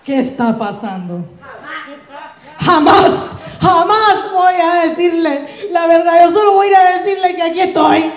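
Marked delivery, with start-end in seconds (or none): 2.6-8.1 put-on drunk dramatic vow.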